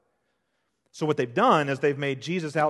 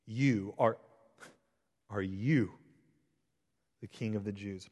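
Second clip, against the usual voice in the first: sarcastic; 4 semitones lower, 5 dB quieter than usual. Retold or imitated. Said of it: "it comes off as sarcastic".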